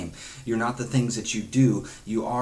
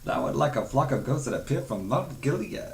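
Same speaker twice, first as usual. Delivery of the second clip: higher, put-on British accent; mock British accent; 5 semitones higher than usual. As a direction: read the verse like the posh British TV dad. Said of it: "the dad had that British accent".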